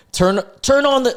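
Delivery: high-pitched acted exclamation; all-caps mock yell. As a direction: read it out like an urgent all-caps text. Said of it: "this is in all caps".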